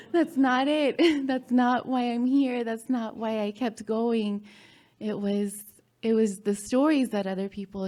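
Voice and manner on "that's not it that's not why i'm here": laughing denial. Real, not acted. Repeats denial while laughing.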